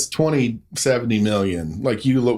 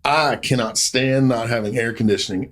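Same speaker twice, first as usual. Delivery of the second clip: Southern Belle drawl. Retold or imitated. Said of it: "in this Southern Belle drawl".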